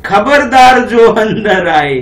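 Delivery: slow, stern warning like a strict dad; a hint of a stern papa; mock stern father. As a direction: warn the kids off like a strict father. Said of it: "और क्या बोलते हैं".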